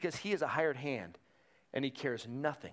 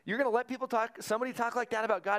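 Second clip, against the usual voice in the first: put-on higher, outraged young voice; indignant young David; 6 semitones higher than usual. David protests the giant's taunts, indignant and higher. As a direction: play David, shocked and indignant. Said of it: "And David's like".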